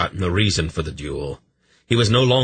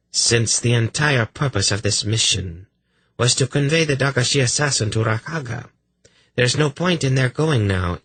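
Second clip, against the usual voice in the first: haughty king voice; 6 semitones higher than usual. Acted. King Urgot voiced in story.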